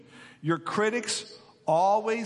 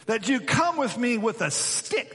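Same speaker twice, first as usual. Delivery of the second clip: slow, raised-pitch scornful roar; 5 semitones higher than usual. Acted. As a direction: keep roaring, drawing the challenge out. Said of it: "he roared at David".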